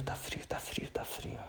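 whispered shivering complaint; in ice cold water. Shown as a demonstration. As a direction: breathe out the cold complaint faintly. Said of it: "falando que tá frio".

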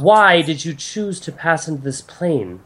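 deliberate goddess, pressing for an answer; questioning goddess. Acted. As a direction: probe them with measured, formal questions. Game master voices goddess.

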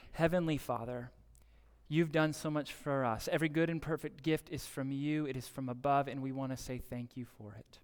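steady, earnest prayer voice. Real, not acted. Pastor closing the service in prayer, earnest. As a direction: lift it up to God.

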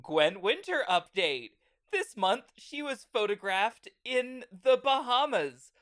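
mock gossip-show anchor voice; tabloid news anchor. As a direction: read it like a trashy tabloid host. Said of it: "once a month would go".

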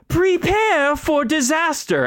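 high, dramatic villain voice; hammed-up cartoon villain; Team Rocket motto. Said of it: "looks at you and says".

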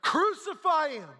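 high, drawn-out yell of demand; acted high-pitched yell. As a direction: cry it out like a priest stirring a mob. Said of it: "Some of the priests start yelling".

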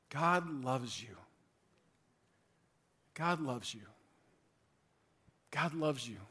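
soft, slow, quiet reassurance; tender assurance. Real, not acted. Pastor gently assuring each listener of God's love, soft and slow. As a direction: let each one sink in gently, slow.

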